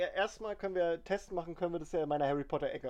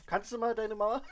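ordinary talk, nothing marked

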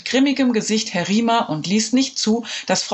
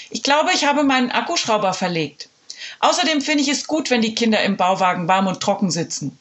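lightly voiced caretaker, slyly casual; a hint of a stubborn janitor playing innocent; 4 semitones higher than usual. Janitor shrugging off the principal, lightly voiced.

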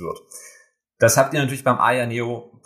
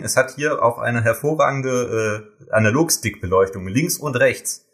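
teleshopping voice. Pretend. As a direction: sell it like a shopping channel host. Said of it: "ich mache jetzt mal hier so wie beim Teleshopping".

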